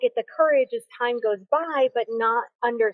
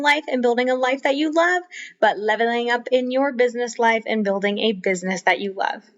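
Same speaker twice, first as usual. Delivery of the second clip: promo read. Acted. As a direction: deliver a polished host-read plug. Reads a promo for free resources.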